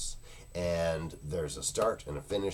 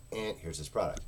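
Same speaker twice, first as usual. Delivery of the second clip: bored indifferent. Shown as a demonstration. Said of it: "other than just going".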